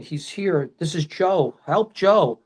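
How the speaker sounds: rising urgent plea; mild mock yell; retold yelling. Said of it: "I'm yelling".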